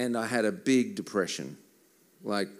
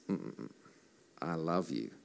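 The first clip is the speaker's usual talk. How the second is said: God's voice; 4 semitones lower, 6 dB quieter than usual. Acted. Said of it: "God's voice".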